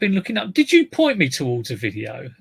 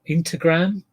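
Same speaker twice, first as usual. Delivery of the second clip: put-on Welsh accent; 4 semitones higher than usual. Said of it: "That was a Welsh accent".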